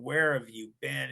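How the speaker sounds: mildly incredulous imitation of worried parents; bewildered parents. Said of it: "They look at us like, "What the hell is going on?".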